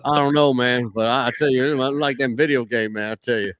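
jumbled-up twangy rambling; Boomhauer twang. Acted. Co-host riffing on the coach, jumbled twang. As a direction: run it together in a mumbly twang. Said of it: "That jumbled up Boomhauer".

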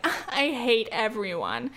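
slow, hammed-up grouchy sigh; mock the cliché complainer; grumpy mock quote. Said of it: "It's kind of annoying when people are like".

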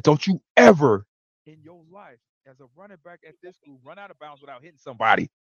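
retold scolding from an angry coach. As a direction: imitate a coach laying down the law, emphatic. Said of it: "like, he was angry".

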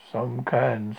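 gloomy donkey. Acted.

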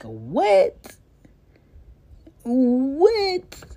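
shocked, rising to high pitch; incredulous what. Acted. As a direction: disbelief at the audacity. Outraged at dads' audacity.

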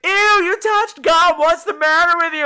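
imitating a line of disgusted strangers; disgusted crowd. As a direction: sneer it like a whole queue judging you. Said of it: "the whole line is like".

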